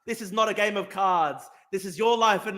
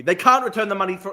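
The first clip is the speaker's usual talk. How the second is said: usual speaking voice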